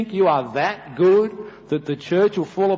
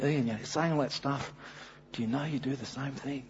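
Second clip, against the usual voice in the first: soft, hushed wife's voice; wife's quiet rebuke; 9 dB quieter than usual. Retold or imitated. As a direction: gently call him out as his wife. Wife confronts him in story.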